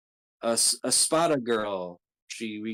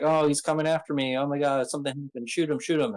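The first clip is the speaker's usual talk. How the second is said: fake alarm; 4 semitones higher, faster than usual. Caesar pretending to his men he's attacked, hammed-up alarm. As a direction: play Caesar faking fright to fool his men. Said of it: "Caesar pretends like".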